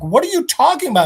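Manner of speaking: quick, high mock confusion; acted bewildered retort; baffled question. Baffled listeners question the doctor.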